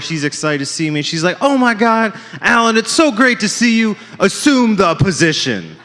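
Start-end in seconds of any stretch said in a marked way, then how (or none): 1.4-4.0 high, gushing mock doctor greeting, slowing down at the end; excited doctor. Doctor greets her favourite patient, high and gushing. 4.2-5.8 slow sultry mock order. Doctor voiced in bit.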